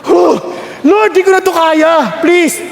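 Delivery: mock desperate plea to the Lord; desperate prayer. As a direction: beg the Lord for help.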